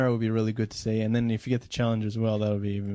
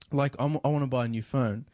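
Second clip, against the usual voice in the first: usual speaking voice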